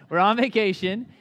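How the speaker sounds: chirpy innocent vacation excuse; innocent dad. Retold or imitated. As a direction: toss it off like it's nothing. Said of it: "my dad just very innocently says".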